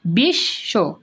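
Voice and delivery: বিশ্ব as bish-sho with a long sh; doubled consonant. Shown as a demonstration. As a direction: model বিশ্ব in two separated syllables. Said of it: "এই যে দুইবার উচ্চারণ হয়েছে". (বিশ্ব, বিশ্-শো, শ দ্বিত্ব)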